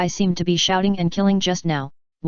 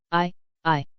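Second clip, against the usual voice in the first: fearful stammer. A narrator's reading. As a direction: falter over the word, held back by fear. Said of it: "Nami said in fear".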